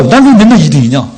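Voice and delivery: mildly acted frustration; angry complaint. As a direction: complain hotly in the pupil's place. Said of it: "화가 나는 거야".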